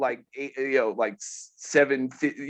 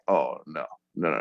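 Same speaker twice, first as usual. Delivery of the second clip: lightly voiced clerk; 13 semitones lower, 4 dB quieter than usual. Store clerk voiced in story.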